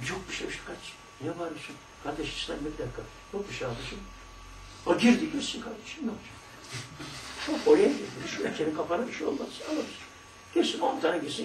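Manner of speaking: soft, hushed calming of a friend; a friend quietly calming a fan at the stadium; soothing an upset fan. Acted. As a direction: talk him down gently. Acted consoling of a shouting fan.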